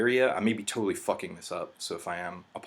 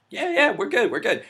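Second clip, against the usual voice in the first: mock eager reply; 13 semitones higher, 5 dB louder than usual. Own eager reply to Pete.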